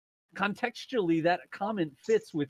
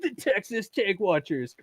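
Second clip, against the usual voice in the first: hammed-up reality show promo; mock TV announcer; 4 semitones higher than usual. Co-host spoofs a reality show trailer, mock announcer. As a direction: announce it like a TV teaser.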